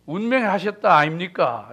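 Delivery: light Gyeongsang dialect lilt; mock a Gyeongsang speaker, half-hearted; gently imitated Gyeongsang Korean accent. Shown as a demonstration. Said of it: "경상도 사람들은요".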